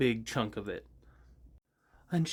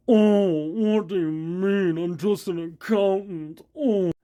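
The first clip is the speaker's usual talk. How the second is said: higher, louder whimpering plea; Pistachio voice; 5 semitones higher, 6 dB louder, slower than usual. Acted. Pistachio denying everything to the party, high teary whine. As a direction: protest innocence near tears. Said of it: "Pistachio is another one".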